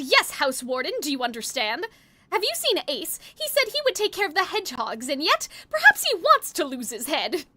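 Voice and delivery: lightly posh, near-transatlantic Riddle; a hint of a stern British house warden; Riddle posh accent. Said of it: "That's the sort of voice that I give all of them".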